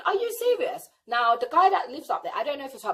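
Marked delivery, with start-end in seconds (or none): 0.1-0.9 pitched up high in outraged disbelief; fuming disbelief. Retold or imitated. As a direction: sound fuming and shocked. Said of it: "I was fuming".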